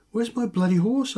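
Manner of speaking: mock outrage about the missing horse; exasperated demand.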